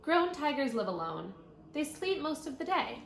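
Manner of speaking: bright, clear read-aloud voice; reading to children. Acted. Teacher reading a tiger book to her class, clear read-aloud.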